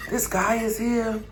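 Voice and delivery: soft, slow, urgent report; urgent hush. Retold or imitated. Roommate calling the landlord, hushed and urgent. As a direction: whisper the alarm down the phone. Calling Anna about stranger.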